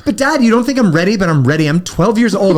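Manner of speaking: a hint of a whiny teenage daughter; mock whiny teen. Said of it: "she's like".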